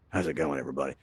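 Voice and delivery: put-on low, soft Brooklyn accent greeting; Brooklyn hello. Host greets the whole crowd in a mock Brooklyn accent. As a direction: say hi to everybody like a Brooklyn local, in a Brooklyn accent. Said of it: "a Brooklyn hello".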